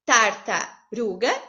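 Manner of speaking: tartaruga said slowly, split in the middle; syllable-split tartaruga. Shown as a demonstration. Teacher showing the class a second split of tartaruga. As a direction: draw out tartaruga with a break at the middle.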